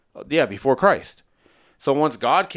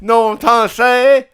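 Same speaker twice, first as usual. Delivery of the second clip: high, loud cartoon-mouse voice; Mickey Mouse; 11 semitones higher, 11 dB louder than usual. Riffing with a laughing co-host, high Mickey Mouse impression. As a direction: push it up into a squeaky mouse falsetto. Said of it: "your Mickey Mouse impression is actually pretty spot on".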